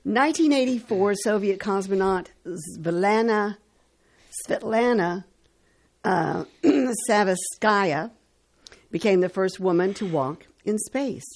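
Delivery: measured announcer read with pauses before names; radio history read. Acted. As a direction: read out the dates and facts like a radio host. Reads today in history on radio.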